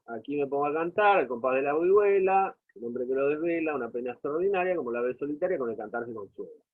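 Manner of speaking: quick run through the lines, fading at the end; verse recitation. Acted. Teacher reading the opening stanza to the class, brisk recitation. Reads the shared verse aloud.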